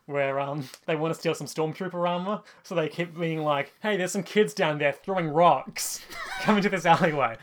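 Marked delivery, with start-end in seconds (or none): 3.8-7.4 laughing through quote. Retold or imitated. Luring Stormtroopers, laughing.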